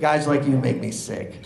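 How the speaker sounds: mild mock gruff roofer; roofer's sneer. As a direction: spit it out in contempt. Roofer's parting insult.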